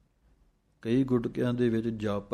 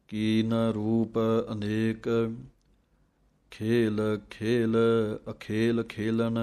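recitation; slower than usual. Shown as a demonstration.

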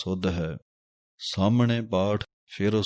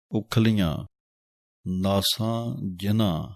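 ਉਖਲੀਆਂ, short pause, then ਨਾਸਾਂ ਜਿਨ੍ਹਾਂ; ਉਖਲੀਆਂ ਤੇ ਵਿਸਰਾਮ; pause after ਉਖਲੀਆਂ. Shown as a demonstration. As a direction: break the line after ਉਖਲੀਆਂ. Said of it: "ਇੱਥੇ ਵਿਸਰਾਮ ਹੈ".

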